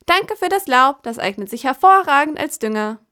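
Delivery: hohe, spitze Ironie; spöttisch. Acted. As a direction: bedank dich mit Spott. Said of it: "meinte sie spöttisch". (spöttische Krähe)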